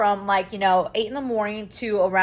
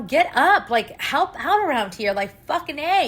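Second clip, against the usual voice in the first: higher, imitated parental exasperation; retold angry nagging; 6 semitones higher, 3 dB louder than usual. Mom retelling nagging older kids, imitated anger. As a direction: replay nagging the kids, pitched up. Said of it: "it makes me angry".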